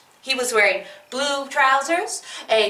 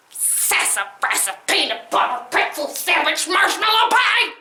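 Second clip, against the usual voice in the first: mock cursing; 3 semitones higher than usual. Man upset, cursing.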